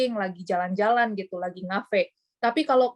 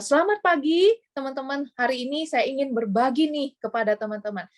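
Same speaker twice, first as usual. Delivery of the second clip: lively rising-falling intonation demo; 4 semitones higher than usual. Shown as a demonstration. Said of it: "Jadi itu ada naik turunnya".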